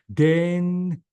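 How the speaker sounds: "dangerous" split as dayn, jerous; two syllables. Shown as a demonstration. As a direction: hold dayn, pause, then finish "dangerous". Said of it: "two syllables".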